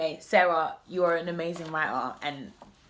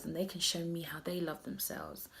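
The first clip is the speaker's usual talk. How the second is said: whisper; 10 dB quieter than usual. Real, not acted. Confiding aside.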